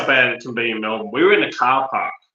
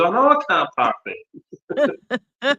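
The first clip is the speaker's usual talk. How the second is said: rising to a very high, strained whine; exasperated stuck driver; 9 semitones higher than usual. Retold or imitated. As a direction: wail it back in frustration. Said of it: "He goes".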